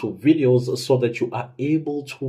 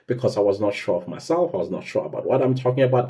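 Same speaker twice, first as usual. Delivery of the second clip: flat, rushed robot delivery; faster than usual. Shown as a demonstration. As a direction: rattle it off like a nervous robot. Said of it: "speak like this, like a robot".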